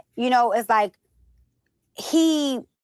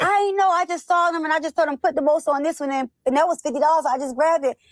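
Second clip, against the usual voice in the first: laughing husband; 6 semitones higher, faster than usual. Retold or imitated. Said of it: "He was like".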